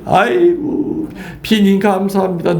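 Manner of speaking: high, slow, delighted thanks to the rain; happy father. Retold or imitated. Priest voicing the father thankful for rain, in a high happy tone. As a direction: sing out a joyful thank-you to the rain.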